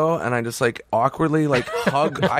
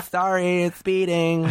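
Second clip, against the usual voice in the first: higher-pitched, hammed-up apology; playing it up; 6 semitones higher, slower than usual. Comic retelling of an apology to cops, played up. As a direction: play up a mock apology. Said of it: "like, play it up".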